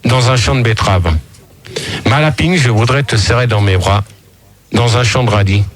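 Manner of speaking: measured verse, falling at each line end; poem recitation. Acted. Poet improvising a love poem to Lapine, measured recitation. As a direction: recite the repeated verse with earnest regularity.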